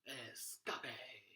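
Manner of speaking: escape read out as ess-CAH-pay; Dory. Retold or imitated. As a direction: playfully misread escape in three syllables, ess-ca-pay. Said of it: "Dory from Finding Nemo".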